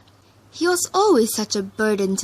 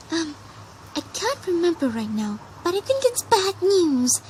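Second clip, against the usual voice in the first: squeaked; 8 semitones higher than usual. A narrator's reading. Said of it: "she squeaked".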